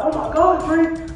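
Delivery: high, silly mishearing; mock passengers. Passengers mishearing brake as Drake, high mock squeal.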